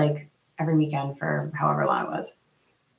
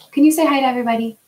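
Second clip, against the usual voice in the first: bright coaxing; 7 semitones higher, 5 dB louder, much faster than usual. Real, not acted. Asks child to greet.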